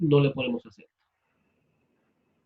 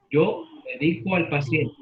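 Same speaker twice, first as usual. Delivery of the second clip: "medico" said me-DI-co, stress on DI; stress on the middle syllable. Shown as a demonstration. Teacher using the verb in a sentence, "medico" stressed on DI. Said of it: "la voy a pronunciar de tres".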